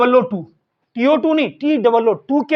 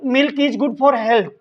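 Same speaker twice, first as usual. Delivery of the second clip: each English word spaced out very slowly; deliberate classroom dictation pace; much slower than usual. Shown as a demonstration. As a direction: read it out slowly for students to write down. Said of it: "teacher dictating example sentence".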